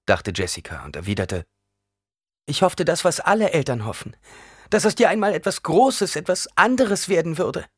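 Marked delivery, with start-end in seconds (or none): 2.5-7.7 high, loud, earnest defence; raised, anxious justification; urgent pleading. A narrator's reading. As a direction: plead your case to your son. Mother defends herself to son.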